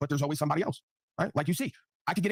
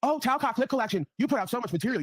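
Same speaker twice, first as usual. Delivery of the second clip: mock flattery; 6 semitones higher than usual. Mocking a flattering critic.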